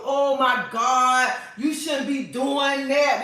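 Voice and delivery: slow, drawn-out mock disapproval; mock upset women. Upset women scolding her for talking about a rose, mock disapproval. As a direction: drag it out like a scandalized scold. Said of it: "some women get upset".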